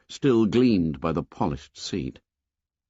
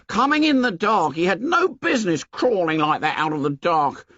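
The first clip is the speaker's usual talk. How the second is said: high shrill excuses; shrill anxious boy; 10 semitones higher than usual. A narrator's reading. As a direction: blame the victim, voice climbing. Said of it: "His voice shrilled again".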